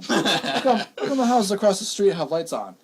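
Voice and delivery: imitating mom's question, high and laughing; laughing retelling. Son retelling mom's suspicion, laughing high. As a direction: ask it while cracking up. Retelling mom noticing lights.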